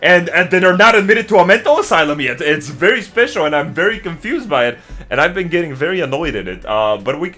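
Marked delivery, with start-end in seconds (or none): 0.0-2.4 louder, lightly raised venting; heated rant. Real, not acted. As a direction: complain with rising heat.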